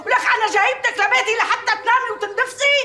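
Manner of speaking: furious scolding. Acted. Mistress scolding the maid.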